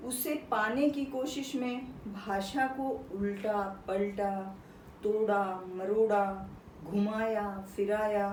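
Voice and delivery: measured poetry reading with pauses between phrases; poem recitation. Acted. Teacher reading the poet's lines to students, measured recitation. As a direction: recite it line by line, setting each phrase apart.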